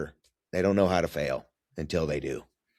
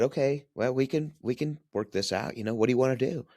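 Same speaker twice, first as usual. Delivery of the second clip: higher-pitched, coaxing retold offer; conciliatory; 7 semitones higher than usual. Father offering to work things out with his upset son, conciliatory. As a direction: ease him toward an answer in a lifted voice.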